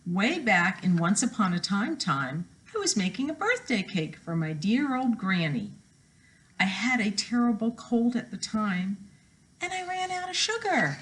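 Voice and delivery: storybook reading voice, lively; story narration. A narrator's reading. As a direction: read it like a picture book to kids. Reads wolf's story aloud.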